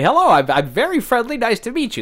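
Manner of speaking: fake Portuguese. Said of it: "That's how you say".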